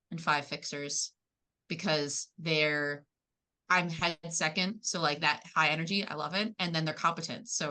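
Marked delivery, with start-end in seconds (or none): none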